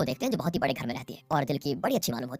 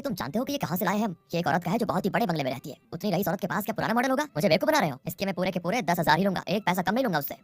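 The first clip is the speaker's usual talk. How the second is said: retold indignant outburst, pitch raised; mildly heated, higher-pitched protest; flaring up; 4 semitones higher than usual. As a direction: act out haggling in a huff. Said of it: "दादू भड़क जाते हैं कि".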